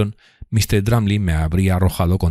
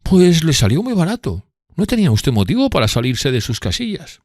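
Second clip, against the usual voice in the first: high, louder taunt; voicing Drumley's loud taunt; 10 semitones higher, 3 dB louder than usual. A narrator's reading. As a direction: rub it in.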